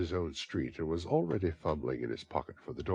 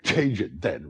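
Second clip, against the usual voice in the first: with a laugh; 2 semitones higher, 7 dB louder, slower than usual. A narrator's reading. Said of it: "responded the girl with a laugh".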